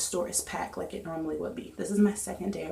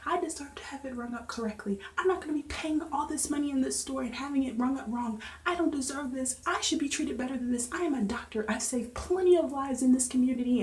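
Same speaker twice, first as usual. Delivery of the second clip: a higher, huffy imitation of the rude customer; mock indignation; 6 semitones higher than usual. Cashier imitating the rude customer scolding her, mock indignant. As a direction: play her outraged entitlement, lightly.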